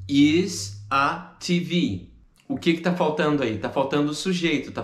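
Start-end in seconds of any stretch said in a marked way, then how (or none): 0.1-2.1 dropping the it, saying is a T V; common mistake. Shown as a demonstration. Teacher showing the learners' mistake, missing it. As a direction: leave out the subject it and say is a T V. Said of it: "tem muita gente que diria".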